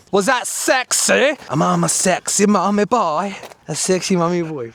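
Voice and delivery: a hint of a seductive voice; failed seductive. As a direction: try to sound sexy and miss. Jokes about being sexy after jump.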